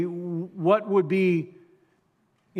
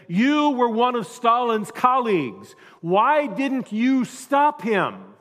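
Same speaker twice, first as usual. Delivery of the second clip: higher, louder accusing call; heckler's shout; 8 semitones higher, 6 dB louder, slower than usual. A narrator's reading. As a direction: shout it from the back of the hall. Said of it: "a shout from a heckler".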